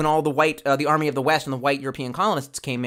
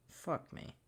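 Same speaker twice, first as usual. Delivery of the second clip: whispered curse; 16 dB quieter than usual. Real, not acted. Frustrated muttered aside.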